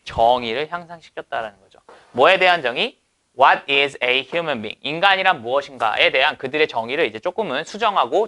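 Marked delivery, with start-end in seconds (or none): 3.4-4.8 reads the English line slowly, word by word. Shown as a demonstration. Teacher reading the example sentence aloud slowly. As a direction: spell out the sentence for students.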